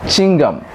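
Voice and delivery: "Chewing gum" squashed into "ching-gum"; mispronounced chewing gum. Shown as a demonstration. Teacher quoting the ladies' local saying, "Chewing gum" as "ching-gum". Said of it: "we hear from you ladies saying".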